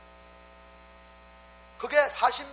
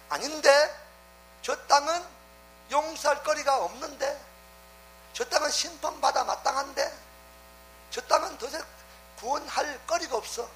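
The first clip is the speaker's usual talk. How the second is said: a lightly raised voice of God weighing the plea; voicing God; 4 semitones higher than usual. Preacher voicing God's reply to Abraham's plea, lightly raised. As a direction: speak as God, reasoning aloud.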